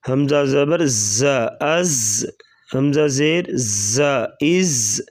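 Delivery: ز said firmly and hard. Shown as a demonstration. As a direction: press hard on ز. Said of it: "زا کو سختی سے پڑھا جائے گا".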